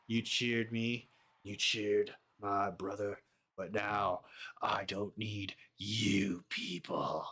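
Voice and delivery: slow, drawn-out sinister cult-leader voice; lightly voiced menacing preacher, taking his time; a hint of a creepy villain talking down to the crowd; creepy villain promo. Uncle Howdy villain promo.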